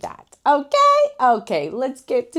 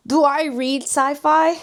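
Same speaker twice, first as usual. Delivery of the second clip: laughing question; 7 semitones higher, 5 dB louder than usual. Real, not acted.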